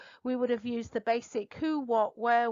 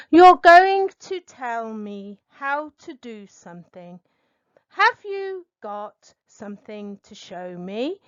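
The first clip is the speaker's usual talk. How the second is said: examiner question; 9 dB louder than usual. Shown as a demonstration. Examiner reads sample question.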